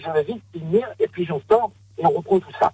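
echoing from the shower; boomy, distant like a tiled bathroom. Real, not acted. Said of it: "on vous entend plus du tout". (voix qui résonne dans la salle de bain)

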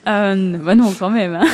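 a quick laughing taste of her Belgian accent. Shown as a demonstration. Singer teases the host with a Belgian accent. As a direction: let a little Belgian accent slip out on request, "quand même, hein". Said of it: "Voilà, c'était tout ce que vous aurez".

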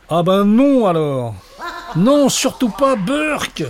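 high, loud, drawn-out protest; terrified cry. A narrator's reading. Terrified boy refuses the horrid names, crying out. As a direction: cry out in horror, voice leaping up. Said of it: "Et Léon, terrifié, s'écria".

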